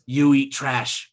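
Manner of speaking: slow, lightly voiced contempt; the Don. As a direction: drag it out with scorn. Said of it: "he goes".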